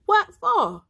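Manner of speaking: high, loud puzzled what for; surprised question. Acted. Bruh Bear startled by Bruh Rabbit, high surprised question. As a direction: squeak it out in surprise.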